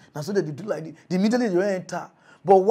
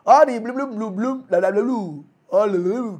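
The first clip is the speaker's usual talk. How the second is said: mock gibberish; 3 semitones higher, 5 dB louder than usual. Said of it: "they talk like this".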